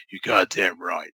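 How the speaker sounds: firm impression of a drug kingpin; Walter White. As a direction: lean hard on it, like a menacing crime boss. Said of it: "In the voice of Walter White".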